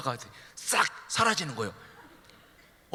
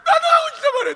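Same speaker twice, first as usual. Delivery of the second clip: high, loud insistent plea; loud begging child; shouting child; 8 dB louder, faster than usual. Acted. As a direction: yell it stubbornly at mother. Child pleading to mother.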